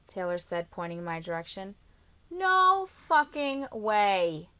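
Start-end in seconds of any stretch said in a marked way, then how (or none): 2.3-4.5 loud, slow disbelieving wail. A narrator's reading. Brother wailing after being hustled at poker. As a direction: howl it like you just lost everything. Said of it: "Trenton wailed".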